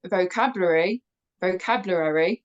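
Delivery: "vocabulary" with its middle syllables muddled; stumbled pronunciation. Real, not acted. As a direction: trip over the syllables of "vocabulary", then retry. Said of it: "see, I can't even say that".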